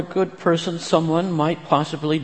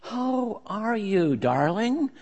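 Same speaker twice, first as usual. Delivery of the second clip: soft, slow, higher motherly voice; kindly; 8 semitones higher, 4 dB quieter, slower than usual. A narrator's reading. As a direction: gently ask after her. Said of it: "the kindly voice in her ear".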